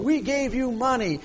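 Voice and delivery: high-pitched retold outcry; imitated hollering. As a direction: throw it out as the wronged mother's protest. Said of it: "she was screaming and hollering".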